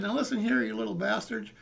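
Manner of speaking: put-on angry homeowner threatening teenagers; stern threat. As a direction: lay down the law to the kids. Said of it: "he said".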